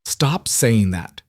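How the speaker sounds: put-on slow, breaking child's plea. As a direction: beg through a cracking voice. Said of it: "Max's voice broke".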